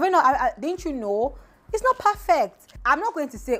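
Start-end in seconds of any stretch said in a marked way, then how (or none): 1.7-2.7 high, slow, leaning on "not"; insistent. Real, not acted. Vlogger insisting to critics, slow and high. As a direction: press the point home slowly.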